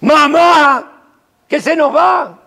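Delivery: anguished high shout of mamá; pathetic cry. Acted. Grieving child cries out to a dying mother, anguished shout. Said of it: "de un grito patético".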